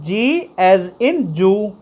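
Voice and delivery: "G as in Jew" spoken slowly; slow pronunciation demo. Shown as a demonstration. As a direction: model "G as in Jew". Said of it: "जी की sound आ रही है इसमें".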